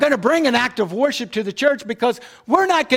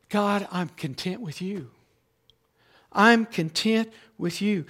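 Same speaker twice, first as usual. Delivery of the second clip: soft sincere prayer; 3 semitones lower, 6 dB quieter than usual. Acted. Voiced prayer of thanks to God.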